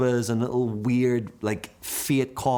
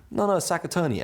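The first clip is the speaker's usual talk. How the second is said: insistent correction; 7 semitones higher than usual. Retold or imitated. Shopkeeper insists on correcting him.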